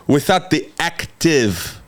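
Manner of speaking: slow phrase with "active" stretched out; stretched, weighty "active"; emphasis on active. Real, not acted. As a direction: dwell on "active", saying it deliberately. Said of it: "listen to every freaking word".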